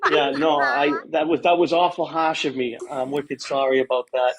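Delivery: put-on Boston accent. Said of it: "I would like to do the Boston accent for you".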